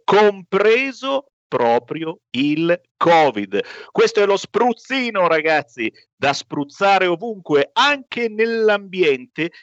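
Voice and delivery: upbeat sales pitch; infomercial. Acted. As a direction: sell the product to listeners. Host pitches sponsor product.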